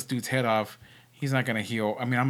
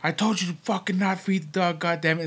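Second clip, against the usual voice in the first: mock angry scolding, pitched up; higher retold yell, not full volume; 4 semitones higher than usual. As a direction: imitate a caretaker telling someone off. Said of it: "was yelling at this woman".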